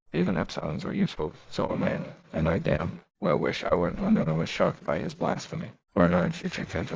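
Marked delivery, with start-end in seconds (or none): 0.1-4.0 derisive. Acted. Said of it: "said Bernard derisively". 5.9-6.3 amazed distress. Acted. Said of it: "a voice of amazed distress".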